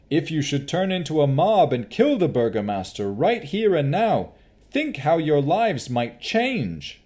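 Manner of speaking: high, earnest appeal, slowing at the end; calm the crowd with reason; pleading Henry. Acted. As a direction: advisor pleading for the Baron.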